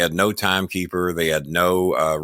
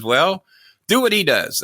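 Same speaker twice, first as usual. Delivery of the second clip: high mock Japanese accent; pitched-up, put-on Japanese accent; fake Japanese accent; 9 semitones higher than usual. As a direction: imitate a wrestler giving orders in a Japanese accent. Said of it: "fake Japanese accent".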